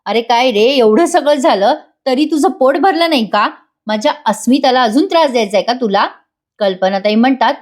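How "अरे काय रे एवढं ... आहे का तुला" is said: retold anger, higher at first; annoyed scolding. Father-in-law confronts Sachin for still being there, annoyed scolding. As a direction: scold him with mild mock outrage. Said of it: "ते प्रतापराव चिडतात".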